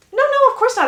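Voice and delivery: high, loud, energized protest; eager denial. Acted. Hyacinth insists she is not tired, eager and energized. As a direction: brush it off brightly and eagerly.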